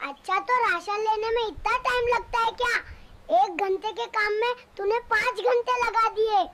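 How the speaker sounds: loud, accusing husband; angry scolding. Acted. Husband scolds wife for coming home late, loud and angry. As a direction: demand to know why it took so long.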